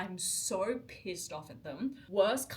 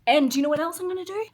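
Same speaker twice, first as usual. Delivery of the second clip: excited; 8 semitones higher, 12 dB louder, much faster than usual. Real, not acted. Hyped teaser to her viewers.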